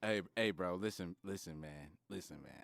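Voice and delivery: low, soft laid-back bro voice; smooth chill dude offering help; frat bro. Pretend. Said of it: "Bro, be Jawan".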